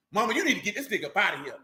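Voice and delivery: put-on whiny indignant kid complaining to mama; a touch of childish outrage. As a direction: kid protesting the stepdad in his daddy's chair. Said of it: "That's how you say it too".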